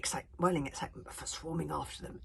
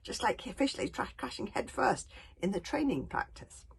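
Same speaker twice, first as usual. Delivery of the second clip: higher, louder, panicking; terrified; 8 semitones higher, 6 dB louder than usual. A narrator's reading. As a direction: rush it out in alarm. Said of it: "thought a terrified Hiccup".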